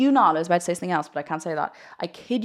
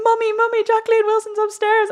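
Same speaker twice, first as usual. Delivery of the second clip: put-on high, loud excited child calling mum; freaking out; 6 dB louder than usual. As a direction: re-enact a screaming, overexcited child. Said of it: "I was, like, freaking out".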